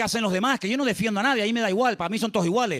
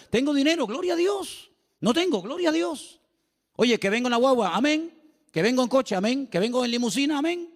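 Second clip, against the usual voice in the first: mock cheerful believer; 5 semitones higher than usual. Mimicking a steady believer.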